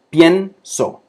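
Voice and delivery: teacher showing the ie in pienso; diphthong demo. Shown as a demonstration. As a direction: bring out the first syllable of pienso. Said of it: "esta primera sílaba".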